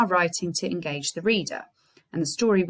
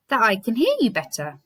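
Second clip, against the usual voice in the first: fake voice; 3 semitones higher, 3 dB louder than usual. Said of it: "in a fake voice".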